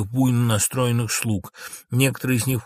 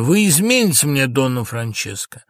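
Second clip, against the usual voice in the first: sorrowful cry, high then falling; plaintive accusation starting loud; sad; 4 semitones higher, 6 dB louder than usual. Acted. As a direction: lament it, then let the voice drop. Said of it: "Лоренцо печально".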